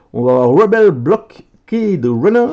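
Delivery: card name "Rebel Blockade Runner" said with a hammed-up English accent. Real, not acted. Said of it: "Quel accent, hein". (accent anglais appuyé sur "Rebel Blockade Runner")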